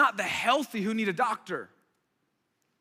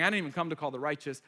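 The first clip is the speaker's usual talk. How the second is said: sarcastic; 4 semitones lower, faster than usual. Retold or imitated. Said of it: "He's being sarcastic".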